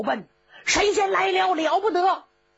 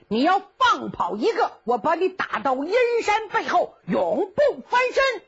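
higher, cocky, bossing his rescuer; gloating Cheng Yaojin; 6 semitones higher than usual. Acted. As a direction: crow over the rescue and give orders. (程咬金得意洋洋地发号施令)

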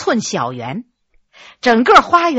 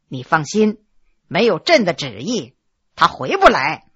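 lower, calm imperial assurance; low emperor voice; 8 semitones lower than usual. Acted. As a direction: settle her fears like a ruler. (低沉笃定的皇帝语气)

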